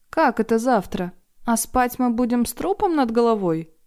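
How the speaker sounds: outraged at the idea; громко, возмущённо; loud indignation. Acted. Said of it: "громко возмутилась".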